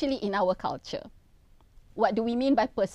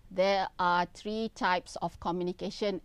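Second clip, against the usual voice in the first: lower, flat read-aloud monotone; expressionless reading; 5 semitones lower, 4 dB quieter than usual. Shown as a demonstration. Lecturer showing students a presenter without body language, expressionless. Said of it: "just sitting here and reading and saying".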